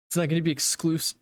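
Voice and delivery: talking through hiccups; words broken by hiccups. Real, not acted. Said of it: "I have the hiccups all of a sudden".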